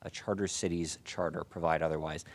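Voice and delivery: muffled behind a face mask; speaking through a mask. Real, not acted. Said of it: "I do apologize for the face mask".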